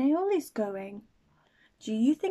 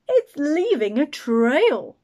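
put-on excited children; 3 semitones higher, 9 dB louder, slower than usual. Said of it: "said the children".

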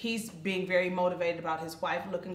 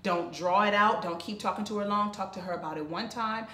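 softer, lower, steady counsel; mother calmly advising her daughter, soft; calm advice; 4 semitones lower, 4 dB quieter than usual. Retold or imitated. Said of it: "mama was like".

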